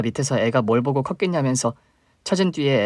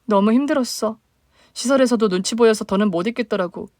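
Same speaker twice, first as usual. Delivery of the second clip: higher, plaintive younger sister; 10 semitones higher than usual. Acted. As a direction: voice the hurt little sister reaching up.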